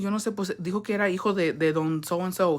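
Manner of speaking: soft, retold Spanish gossip; hushed gossip. Girl tells neighbour whose son it was, hushed gossip. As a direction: keep it quiet, like passing on a secret.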